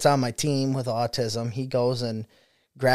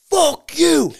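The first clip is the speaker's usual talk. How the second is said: mock angry kid; 7 dB louder than usual. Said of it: "he's like".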